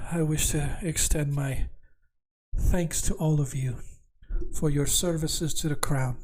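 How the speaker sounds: soft, tired, breathy princess; barely there, drained of strength; exhausted whisper. Acted. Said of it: "very softly and quietly and almost like in an, uh, an exhausted voice".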